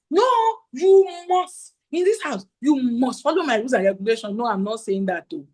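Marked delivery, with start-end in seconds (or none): 0.1-4.3 strict parent. Shown as a demonstration. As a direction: lay down the law like a strict mom. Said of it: "Don't just say".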